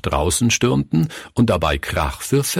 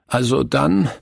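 put-on high child's voice, giving in; sighing resignation; 7 semitones higher than usual. A narrator's reading. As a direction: give in with a touch of a sigh. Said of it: "sagte Günther seufzend". (leicht seufzend, mit hoher Kinderstimme)

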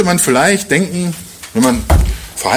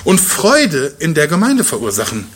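higher, heartfelt apostle's voice; lightly voiced Paul, raised and earnest; 4 semitones higher than usual. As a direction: press the words out of care for the church. Voicing Paulus about the church.

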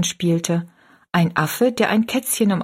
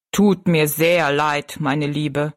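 lower, slow giant voice; a slow, kindly giant, remembering; 4 semitones lower, slower than usual. Acted. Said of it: "wiederholte der Riese". (Riese, tief und langsam)

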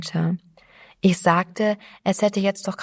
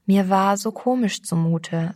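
ordinary delivery

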